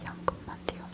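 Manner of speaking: barely audible 현금만 돼요; fading whisper. Shown as a demonstration. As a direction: let 현금만 돼요 fade almost to nothing. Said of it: "n'oubliez pas cette expression".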